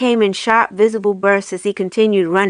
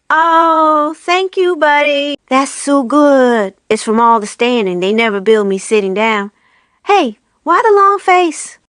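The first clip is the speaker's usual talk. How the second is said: much higher relieved snowman voice; 6 semitones higher than usual. A narrator's reading. Jim thanking Buddy for cracking his back, high snowman voice. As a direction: sigh with relief as a silly snowman.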